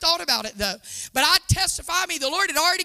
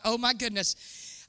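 awed hush; 4 semitones lower, 7 dB quieter, slower than usual. Retold or imitated. Inner awe at the calling.

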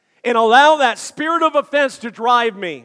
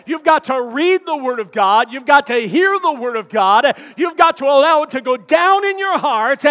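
from firm to full shout, much louder; building preached shout; 2 semitones higher, 5 dB louder than usual. Acted. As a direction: build each "you've got to" into a roaring sermon climax.

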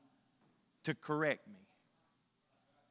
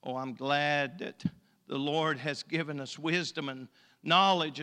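normal talking voice

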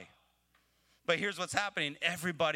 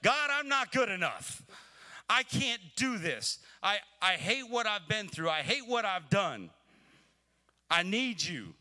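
pleading prayer; 6 semitones higher than usual. Pretend. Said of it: "the continuous thought of".

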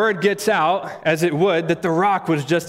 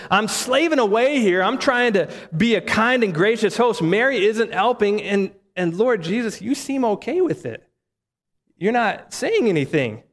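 acted complaint, pitched up; a higher, mildly exasperated plea; frustrated; 5 semitones higher than usual. Overworked host complaining to Jesus about her sister, mildly frustrated. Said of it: "But Mary's frustrated. She, she says".

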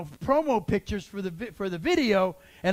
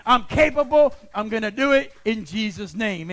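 confident prayer declaration; 3 semitones higher, 6 dB louder than usual. Pretend. Congregation prays boldly.

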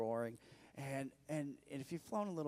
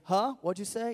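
loud, high fake huh with headphones in; mock not hearing; 7 semitones higher, 7 dB louder than usual. Preacher acting deaf to chatty girl, loud mock confusion. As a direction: pretend you can't hear her. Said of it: "You know, kind of thing".

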